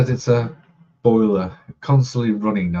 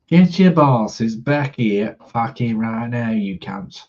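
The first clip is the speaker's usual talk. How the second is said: mock angry demand; 2 semitones higher than usual. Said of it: "make sure you do it like that in a Cockney accent".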